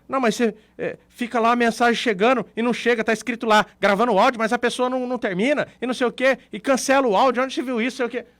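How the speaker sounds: retold desperation. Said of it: "A pessoa fica desesperada".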